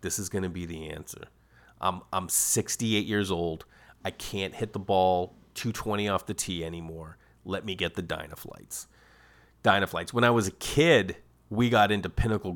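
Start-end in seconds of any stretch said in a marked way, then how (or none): 0.0-8.9 put-on old grandfather. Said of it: "my grandfather's probably sitting there like".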